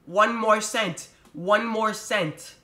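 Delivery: slow, drawn-out mock demand; mocking cashier. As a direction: mimic her nagging slowly.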